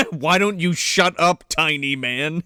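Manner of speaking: slow, measured giant's put-down; mock monster threat. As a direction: dismiss the puny human without hurry. Joins in voicing Goro.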